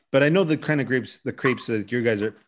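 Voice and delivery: talking with a watering mouth. Real, not acted. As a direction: speak through a mouth full of saliva. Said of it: "my mouth is watering".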